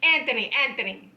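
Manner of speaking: pretend Indian woman. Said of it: "And he goes".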